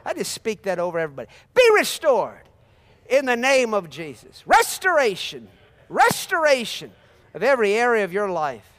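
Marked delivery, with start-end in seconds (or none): 1.5-8.7 proclaiming blessing. Real, not acted. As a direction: speak it over the whole church. Preacher speaking blessing over everybody.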